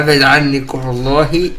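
slow laughing retreat. Real, not acted. Player backing away from a suspect, laughing. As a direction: back off with a laugh.

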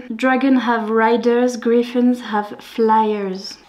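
slow, careful reading of the English line; slow English quote. Shown as a demonstration. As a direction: read it slowly, word by word. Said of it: "dans la version en anglais?". (lecture lente et appliquée de la citation anglaise)

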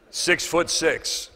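six-foot-six stretched out slowly; drawn-out size. Retold or imitated. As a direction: let "Six-foot-six" drag for awe. Describing a huge man.

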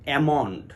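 almond with silent L; almond said as amond; almond pronounced correctly. Shown as a demonstration. Teacher giving the correct form, almond with the L dropped. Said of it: "বিশুদ্ধ উচ্চারণ হবে".

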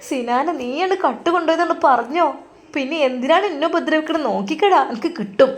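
high wailing mother's plea; crying mother. Acted. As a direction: cry out in pain as the beaten mother. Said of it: "ഉമ്മ അവിടെ നിന്ന് ഉറക്കെ കരയുകയാണ്".

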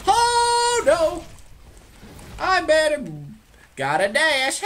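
high loud panic; panicked. Real, not acted. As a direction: cry out and flee. Panicked fleeing.

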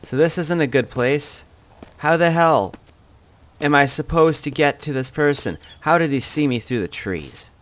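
loud, high flustered panic; rattled and scrambling; panicking gamer. Real, not acted. Spotted, scrambling for a plan.

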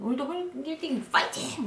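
mock stadium cheer. Worker cheering herself off to work, mock stadium yell. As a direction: cheer yourself on like a fan. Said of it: "야구장에서 나 소리 질렀던 걸 이제 떠올리는".

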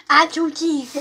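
laughing. Real, not acted. Laughing echo of friend.

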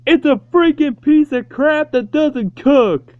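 loud frustrated rant at the microwave; furious yelling at a crappy microwave; angry rant. Real, not acted. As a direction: shout it at the broken microwave.

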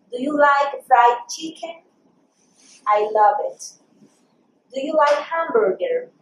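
slow, careful English for learners; pronunciation model. Shown as a demonstration. Teacher repeating food questions for learners, slow pronunciation model. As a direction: say each phrase slowly as a teacher's model. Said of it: "vamos a hacer una vez más la pronunciación".

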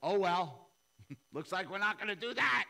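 nervous laughing dodge; sheepish laughing excuse. Retold or imitated. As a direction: chuckle it away to God. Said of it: "I said to the Lord".

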